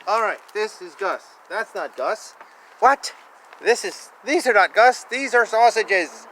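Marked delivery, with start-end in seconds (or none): 2.8-6.2 sudden high, loud mock outrage; mock surprise. Parent reading to child, mock shocked at sausages.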